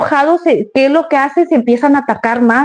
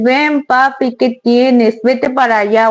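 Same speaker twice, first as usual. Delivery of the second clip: sweet talk; slower than usual. Retold or imitated. Owner sweet-talks the angry dog, gentle and loving. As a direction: coax the dog like a baby. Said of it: "si tú le hablas bonito y le dices".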